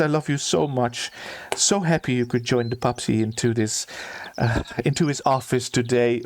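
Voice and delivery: lightly voiced doting baby talk to a bird; cooing steward. Steward cooing over his bird, lightly doting. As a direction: coo at the pet a little. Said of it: "he's saying".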